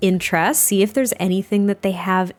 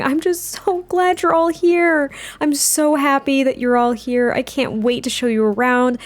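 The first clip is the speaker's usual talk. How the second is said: lightly voiced gushing hostess, pitched up at first; light, eager welcome starting high and settling; Hannah; 4 semitones higher than usual. Hostess to her visiting parents, lightly gushing. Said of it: "Hannah's just thinking".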